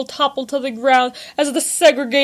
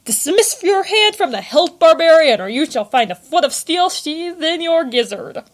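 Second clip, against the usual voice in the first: higher, louder barked order, loudest on barbarian; commanding soldier; 6 semitones higher, 4 dB louder than usual. A narrator's reading. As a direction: order him to drop the sword.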